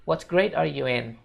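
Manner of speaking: slow model question; model sentence. Shown as a demonstration. Teacher gives the English question slowly. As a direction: say it slowly for the class. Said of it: "bahasa Inggrisnya".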